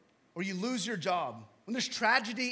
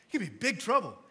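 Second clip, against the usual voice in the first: louder, firm, no laugh now; emphatic warning; 3 semitones higher, 6 dB louder, much faster than usual. Real, not acted. Pastor repeating the warning to the congregation, firm. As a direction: drive the warning home in earnest.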